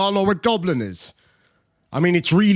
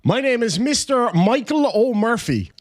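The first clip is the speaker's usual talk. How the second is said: mock pompous lawyer; 8 semitones higher than usual. Mock reading of lawyer email.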